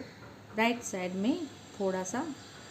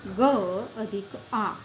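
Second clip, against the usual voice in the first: slow teaching demo; 5 dB louder, much slower than usual. Shown as a demonstration. Teacher sounding out ग अधिक आ for children, slowly. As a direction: spell out ग अधिक आ slowly and a bit louder, one sound at a time. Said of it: "इसलिए ग".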